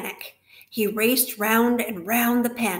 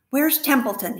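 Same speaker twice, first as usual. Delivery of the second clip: a louder, higher demand; 4 semitones higher, 5 dB louder than usual. Acted. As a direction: Wilbur demands to know where the rat is. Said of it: "he demanded".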